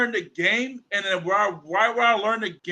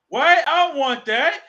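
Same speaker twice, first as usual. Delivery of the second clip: put-on louder, higher whine of a kid refusing dinner; whiny kid; 5 semitones higher, 5 dB louder than usual. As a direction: complain like a picky child. Kid whining back at mom.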